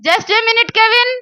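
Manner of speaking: high sing-out to a child, lightly acted; a touch of a preoccupied mum calling back; busy mother. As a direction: put the child off from across the house.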